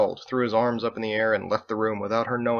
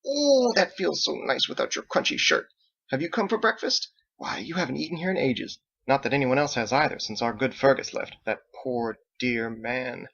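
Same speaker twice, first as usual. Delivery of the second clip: gushing mother; 3 semitones higher than usual. Acted. Elderly mother greeting her son, very high and gushing. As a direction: swoon over him like a doting mom.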